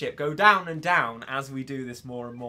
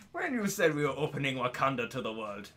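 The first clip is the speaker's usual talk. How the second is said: softer, lower put-on African accent; 5 semitones lower, 4 dB quieter than usual. Streamer repeats a favourite Wakanda line, soft African accent. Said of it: "I love that line".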